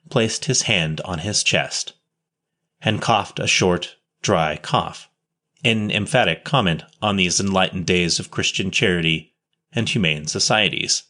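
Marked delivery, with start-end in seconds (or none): none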